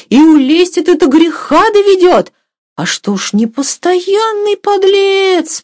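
high, animated cook in scandalised relish; gossiping cook. A narrator's reading. Cook tells her mistress of the seducer, scandalised and animated. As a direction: draw out the reproaches in a high voice.

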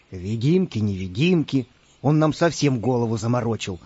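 low, grumpy pirate grumble; grumbling. Acted. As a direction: grumble it under your breath. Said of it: "пробурчал пират Бульбуль". (ворчливо, низким голосом)

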